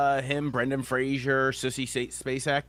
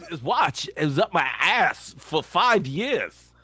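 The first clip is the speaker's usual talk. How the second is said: slow, drawn-out Walken-style deadpan; Walken line; 4 semitones higher, slower than usual. Retold or imitated. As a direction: stretch each word like Walken. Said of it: "I love the pause when he does that".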